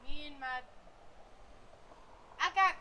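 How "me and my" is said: soft slow whisper. Real, not acted. Kid whispering aside.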